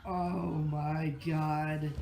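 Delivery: slow, quiet and spent; drained after laughing; breathless. Real, not acted. Exhausted after laughing fit.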